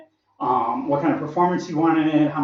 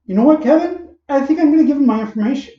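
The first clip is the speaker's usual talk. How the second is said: dad giving in; 10 semitones higher, 5 dB louder, faster than usual. Retold or imitated. Dad voiced in the story.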